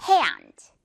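emphatic gliding A in hand; rubber-band hand. Shown as a demonstration. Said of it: "고무줄 당깁니다".

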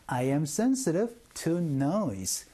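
very slow model sentence, every word spaced out; slow drill. Shown as a demonstration. Teacher leading the class drill, very slow and clear. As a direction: spell it out slowly for learners to repeat. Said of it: "시작".

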